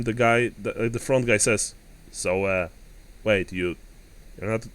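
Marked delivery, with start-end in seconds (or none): 2.1-4.7 disappointed. Acted. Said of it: "He's almost disappointed".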